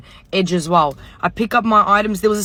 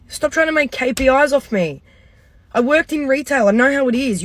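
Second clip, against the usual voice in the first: higher, heated and fed up; exasperated rant; 4 semitones higher than usual. Retold or imitated. Venting at the pushy sales assistant, heated and fed up. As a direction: let rip at the salesgirl who won't back off.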